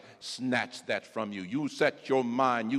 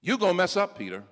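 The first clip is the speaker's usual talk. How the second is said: Jesus pressing; 7 semitones higher, 5 dB louder, faster than usual. Acted. Jesus warns Peter louder.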